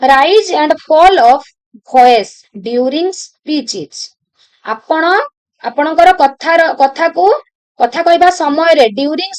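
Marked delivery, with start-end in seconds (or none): 0.0-4.0 reads the question out very slowly, word by word; slow dictation reading. Acted. Teacher dictating an exam question to students, very slow. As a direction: dictate each word so students can copy it.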